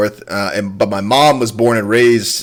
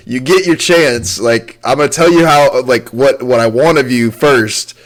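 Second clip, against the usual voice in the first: stern Southern mom. Retold or imitated. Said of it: "he reminds me of kinda how my mom was".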